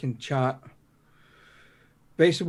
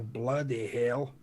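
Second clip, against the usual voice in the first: awed; 3 semitones lower, 7 dB quieter, much slower than usual. Retold or imitated. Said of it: "you go".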